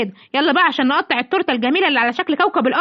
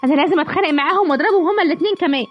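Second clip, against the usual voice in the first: higher, fast, outraged tattling; indignant complaint; 5 semitones higher than usual. Acted. Simba's mother complaining to her son, fast and outraged. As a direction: rush it out, itching for a fight. Mother insulted by bride, threatens fight.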